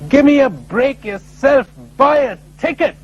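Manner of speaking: a hint of a divine voice answering back; voice of God. God retorting to the praying man, lightly hammed divine voice. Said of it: "he heard a voice reply".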